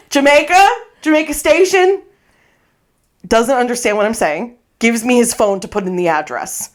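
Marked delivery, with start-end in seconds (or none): 0.1-2.0 higher-pitched, checking question; questioning repeat. Acted. Passenger to a driver who doesn't understand, questioning. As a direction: try the place name on someone who isn't following.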